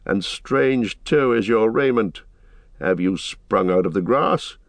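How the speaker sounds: lightly voiced rider questioning strangers; measured challenge building into questions; suspicious rider.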